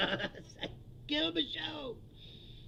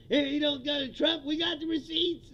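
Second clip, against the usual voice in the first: mocking the host, higher and louder; mock pundit; 4 semitones higher, 5 dB louder than usual. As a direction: sneer out his gotcha line. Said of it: "mocking Will Cain".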